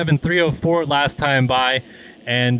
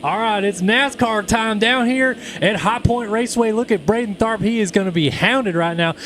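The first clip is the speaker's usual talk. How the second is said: raised, hyped Southern race call; nascar announcer voice; 3 semitones higher than usual. Pretend. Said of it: "let's do nascar".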